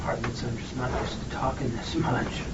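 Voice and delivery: speaking with a dry mouth; parched, sticky-mouthed talk. Real, not acted. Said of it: "Keeps drying my mouth out".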